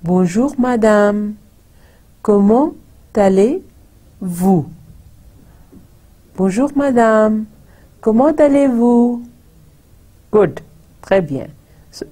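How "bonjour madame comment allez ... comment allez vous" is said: comment allez-vous? with raised, rising intonation; a bit livelier. Shown as a demonstration. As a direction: lift the greeting up, questioning. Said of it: "अब मैं थोड़ा सा तेज बोलती हूँ".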